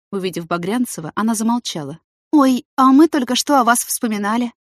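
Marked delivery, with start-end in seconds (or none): 2.3-4.5 naive surprise. Acted. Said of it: "наивно удивилась Марго".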